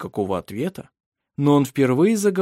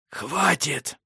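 soft, otherworldly rasp; rasped order; 3 semitones higher, 4 dB quieter than usual. Acted. Grim companion stops the girl with a rasp. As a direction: hiss it like a creature. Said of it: "просипел Мар".

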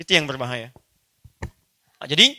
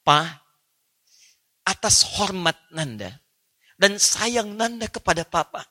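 son pleading tenderly; 2 semitones lower than usual. Acted. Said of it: "Lihat cara menerjemahkannya".

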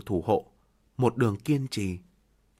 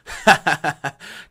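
bitter laugh; 6 dB louder than usual. Acted. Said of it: "cười nói".

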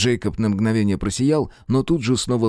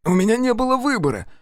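much higher, desperate wail; 12 semitones higher than usual. Acted. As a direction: cry out in panic. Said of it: "взвыл Джейкоб".

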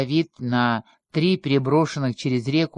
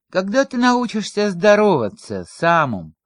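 irritated grumble, pitched up, falling at the name; grumbling; 5 semitones higher, 4 dB louder than usual. A narrator's reading. Bruno rebukes his master's servant for not greeting him, grumbling. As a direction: scold a subordinate, mildly peeved. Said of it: "ворчливо сказал Бруно".

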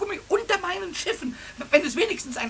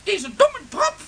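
mocking teacher impression.

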